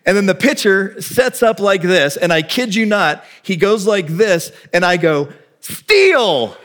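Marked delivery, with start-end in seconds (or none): 5.6-6.6 high, drawn-out coach's shout; really loud yell. Retold or imitated. Coach sending a hesitant kid to second, loud yell. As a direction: holler it across the ball field, pitched high. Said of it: "really loud".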